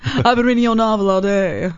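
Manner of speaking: lightly husky sultry voice; Kathleen Turner impression. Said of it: "Kathleen Turner".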